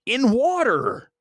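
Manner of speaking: mock excited fan; imitating excited anticipation. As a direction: act the hyped moviegoer before the film. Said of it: "you're like".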